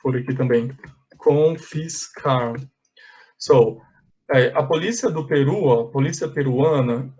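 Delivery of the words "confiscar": Confiscar stretched slowly, each syllable clear; slow model word. Shown as a demonstration. Teacher spelling out the verb slowly for students. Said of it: "é, confiscar".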